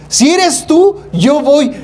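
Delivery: high, slow, drawn-out doubtful Peter; doubting Peter. Retold or imitated. Peter to Jesus on the water, mock doubtful and slow. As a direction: stretch it out like a skeptic. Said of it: "No como Pedrito".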